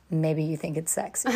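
giggling while joking; laughing. Real, not acted. Teasing joke about hoarse voice.

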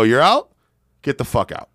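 high, loud mocking dismissal; taunting shout. Taunting the rival who quit, loud. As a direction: rub it in his face.

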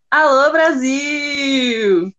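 slow stretched-out call; drawn-out greeting. Pretend. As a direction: belt out a showy hello. Hammed-up greeting shout.

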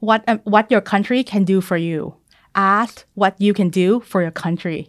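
very slow, measured oratory; JFK speech quote. Retold or imitated. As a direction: deliver it like an inaugural address, with long pauses. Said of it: "ประมาณว่า". (อ่านช้าๆ แบบสุนทรพจน์)

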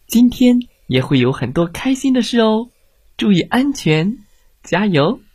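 lightly voiced encouraging mother; cheerful encouragement. A narrator's reading. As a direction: send a child off with encouragement. Mother cheerfully sends child off.

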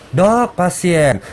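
mock urgent call for the doctor. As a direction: call out like a nurse interrupting. Host voices staff calling doctor.

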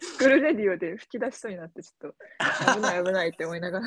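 laughter leaking through the words; giggling while trying to keep a straight face; trying not to laugh. Real, not acted. Recalls nearly bursting out laughing.

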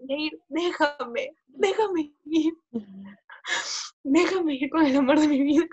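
very slow, drawn-out sobbing beg; drunk crying plea. Retold or imitated. Begging Yair to let her go with the guy, very slow crying plea. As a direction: stretch each word out like a tearful drunk. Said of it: "un poco más llorando".

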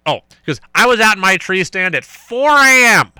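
a hint of the boastful coach; imitating coach. Host voicing his hunting coach bragging. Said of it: "southern accent to him".

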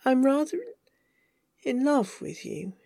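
halting love confession, softening at the end; hesitant confession. Acted. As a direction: break after RATHER, then finish softly.

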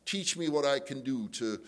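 demonstration prayer. Shown as a demonstration. Models a prayer for an enemy.

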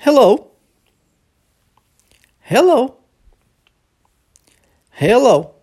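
clear, isolated "Hello" for learners to echo; model pronunciation for repeating. Shown as a demonstration. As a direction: say "Hello" as a crisp teacher's model. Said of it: "ouça e repita".

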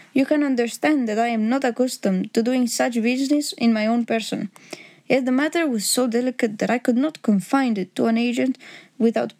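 lightly voiced formal Bohemian count; a hint of a Bohemian nobleman's accent. Count laying terms before Holmes, lightly accented and formal.

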